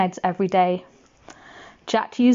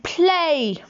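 shouted command; 6 semitones higher than usual. Acted. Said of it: "poked the harp and shouted".

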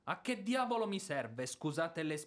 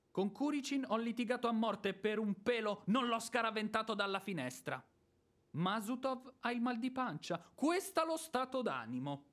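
rising, higher, heated complaint; angry rant; 5 semitones higher than usual. Acted. Landowner rants about his debtors, angry. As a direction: boil over about the debtors.

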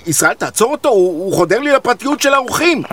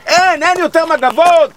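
higher, louder cry of despair; exasperated outburst; 7 semitones higher, 4 dB louder than usual. Acted. Innkeeper tells his friend about the towels, exasperated and louder. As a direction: burst out at the end of your rope.

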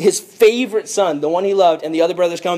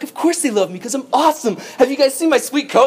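boastful; 7 semitones higher, faster than usual. Acted. Joseph acted bragging about himself.

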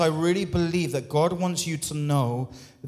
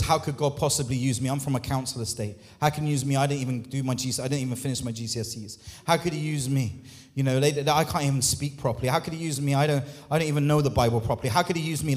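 mock self-doubting excuses; 3 semitones lower, much faster than usual. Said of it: "That says".

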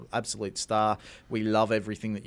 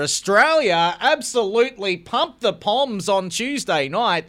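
gloating tease; 8 semitones higher, 6 dB louder, slower than usual. Real, not acted. Gloating teasing a friend.

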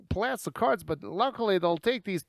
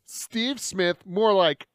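mocking; much slower than usual. Taunting the prisoner.

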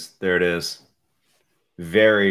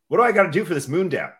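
talking while choking; throat catching, strained words; choking on a drink; 9 semitones higher, 7 dB louder, faster than usual. Real, not acted. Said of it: "I'm kinda choking".

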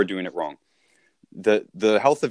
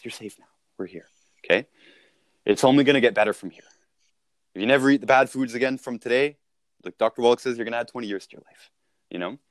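calm reassuring voice. Retold or imitated. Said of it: "This Ben talks like this".

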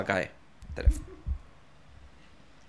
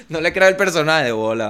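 high, loud doubting voice; skeptical viewer; 5 semitones higher, 5 dB louder than usual. Retold or imitated. Hollywood audience doubting a millionaire, loud scoff. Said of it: "Te ven a ti".

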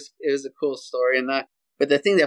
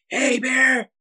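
sharp, much higher shout of hey bear; screamed at bear; 11 semitones higher than usual. Retold or imitated. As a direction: yell it to turn a charging bear. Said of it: "And I screamed it".

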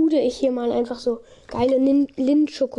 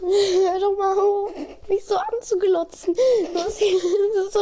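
laughing; 5 semitones higher than usual. Real, not acted. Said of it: "lach die ganze Zeit".

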